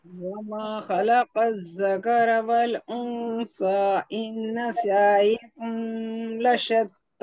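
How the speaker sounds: slow, careful Quranic recitation; student reciting verses slowly. Shown as a demonstration. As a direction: recite the verse for the teacher to check. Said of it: "सही पढ़ा?".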